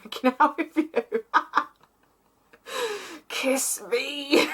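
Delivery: laughing through a high playful demand. Acted. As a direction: giggle and squeal it out. Acting out the kiss.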